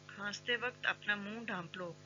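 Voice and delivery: usual speaking voice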